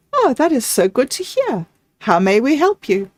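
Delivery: high lilting delight, sweetly courteous; sweet sing-song voice. Acted. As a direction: sing it sweetly to a welcome guest. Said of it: "her sweet sing-sung voice".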